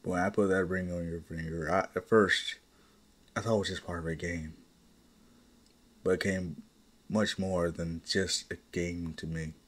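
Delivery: low, tender confession to a wife; heartfelt confession. Acted. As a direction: confess it softly and sincerely. Husband's heartfelt confession to his wife.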